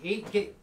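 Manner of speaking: eight-bit slipped into "eight git"; "git" said with a g instead of b; mispronounced. Real, not acted. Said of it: "You'd think I could do that one right".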